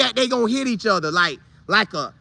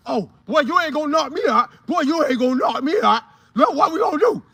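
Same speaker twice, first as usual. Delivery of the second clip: higher, cocky taunt; taunting player; 5 semitones higher than usual. Retold or imitated. Marcus taunting Mike before the collision, higher and cocky. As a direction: talk trash before the hit.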